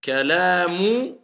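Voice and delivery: Kalamu joined on, slow; liaison. Shown as a demonstration. Teacher showing the liaison, slow. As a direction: link straight into Kalamu. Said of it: "On fait la liaison".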